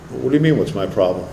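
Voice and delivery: low, quiet challenge; imitating a guarded comeback, low and soft; defensive retort. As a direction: push back under your breath, pitch dropped. Imagined defensive retort to a stranger.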